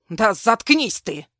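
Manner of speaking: громкий медленный окрик; рявкнуть заткнись; крик. A narrator's reading. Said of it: "крикнул". (громкий злой окрик)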